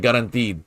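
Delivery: garantido with no R sound at the end, brisk; Portuguese garantido, quick. Shown as a demonstration. Repeating the tutor's correction of garantido, quickly. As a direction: say garantido fast and drop the final R. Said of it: "don't really say the R".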